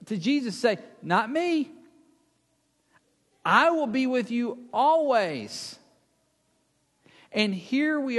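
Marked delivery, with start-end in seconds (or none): 1.0-5.8 higher-pitched, confident promise; bold vow. Acted. Peter boldly pledging to stay with Jesus, confident vow. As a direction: declare loyalty boldly. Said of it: "he has the boldness".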